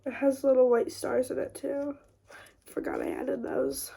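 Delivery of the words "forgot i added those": whispering. Real, not acted. Whispered aside.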